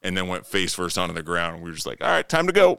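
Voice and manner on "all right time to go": higher-pitched call to leave; lightly acted urgency, voice lifted; retold hasty exit. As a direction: mimic a quick let's-get-out-of-here, pitched up. Retold hasty exit after knockout.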